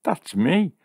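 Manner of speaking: high-pitched happy exclamation; joyous. A narrator's reading. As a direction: pipe up high with delight. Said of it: "said a joyous Jill".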